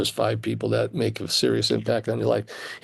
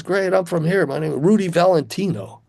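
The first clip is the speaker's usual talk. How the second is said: a hint of a confident rival, pitched higher; rival guitarist; 6 semitones higher than usual. Rival introducing himself to the kid from Cleveland, lightly voiced and higher. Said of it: "he goes".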